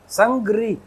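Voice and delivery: संग्रही as "sang-grii"; syllable demo. Shown as a demonstration. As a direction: stress the "rii" sound in संग्रही. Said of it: "यहाँ पे भी आ गया ना री".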